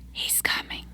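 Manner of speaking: breathy hiss of a whisper, very soft; a ghostly serpent whisper echoing round the theatre; Parseltongue whisper. Acted. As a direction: whisper it like a snake in the dark. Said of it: "a Parseltongue whispers reverberating".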